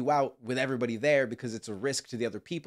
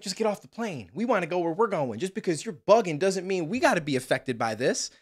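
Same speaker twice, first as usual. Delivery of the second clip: annoyed passengers voice; 5 semitones higher than usual. Retold or imitated. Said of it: "everyone's just like".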